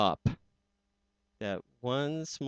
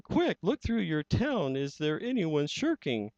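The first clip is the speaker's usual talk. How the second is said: higher, pleading elephant voice; lightly voiced anxious Horton; urgent elephant; 5 semitones higher than usual. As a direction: beg the tiny mayor to act. Horton's voice again.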